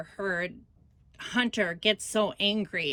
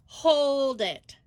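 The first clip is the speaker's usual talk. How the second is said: higher-pitched, drawn-out call to stop; retold exasperated halt; 4 semitones higher than usual. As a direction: cut into the quarrel, imitating your own firm protest. Breaks up a retold quarrel.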